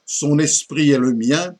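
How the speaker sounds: declaimed mock-tragic lament of an old poet; lightly acted poetic declamation; theatrical verse recitation. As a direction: recite it like classical French tragedy, with measured emphasis. Recites the parody poem.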